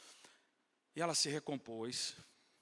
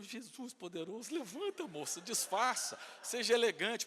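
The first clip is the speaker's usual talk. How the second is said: urgent high hushed plea; flustered pleading; 6 semitones higher than usual. Retold or imitated. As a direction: beg under your breath, trying not to draw attention. Flustered pleading with woman on floor. (súplica aflita e contida)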